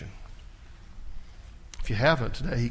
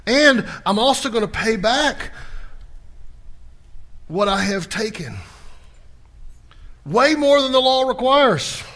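voicing Zacchaeus; 9 semitones higher, 7 dB louder than usual. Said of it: "He said".

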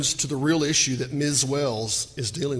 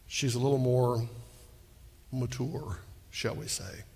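coy aside; 4 semitones lower, 7 dB quieter than usual. Real, not acted. Coy aside about her age.

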